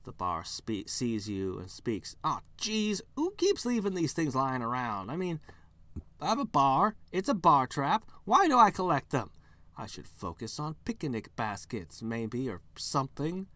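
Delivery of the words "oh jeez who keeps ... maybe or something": grumbling bear. Acted. Bear caught in a trap.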